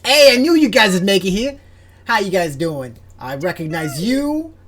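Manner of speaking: high, bright eager squirrel voice; chirpy little squirrel chatter. Acted.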